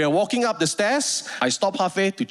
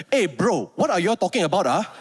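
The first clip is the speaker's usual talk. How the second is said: casual Malaysian English; bro-talk in Malaysian English; light Malaysian English; faster than usual. Retold or imitated. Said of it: "the way I would speak as a Malaysian".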